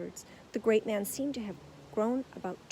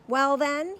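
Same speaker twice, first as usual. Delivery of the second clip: crossly; 6 semitones higher, 9 dB louder than usual. A narrator's reading. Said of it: "he said crossly".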